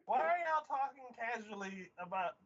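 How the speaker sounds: high, appalled protest; exaggerated outrage. Viewer scolding siblings over drugging, exaggerated outrage. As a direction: exclaim in incredulous disapproval.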